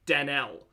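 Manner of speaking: Danelle as dan-ELL, no y glide; silent Y. Shown as a demonstration. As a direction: drop the y sound in Danelle. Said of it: "The Y is silent".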